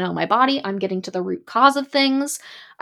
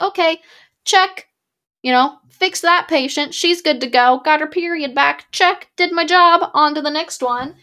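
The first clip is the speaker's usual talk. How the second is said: mocking doctor voice; 5 semitones higher than usual.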